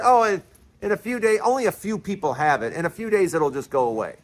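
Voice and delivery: quick, dismissive mock quote, lightly voiced; mocking Donald Trump. Vlogger mocking the president's pandemic words, quick light parody. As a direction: breezily brush off the danger, a light parody of the president. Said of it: "remember when he said that?".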